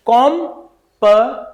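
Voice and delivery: "com", pause, weak "प"; full round "com", then schwa "प"; syllable-by-syllable demo. Shown as a demonstration. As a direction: break it into KOM and puh. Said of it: "it will be pronounced as".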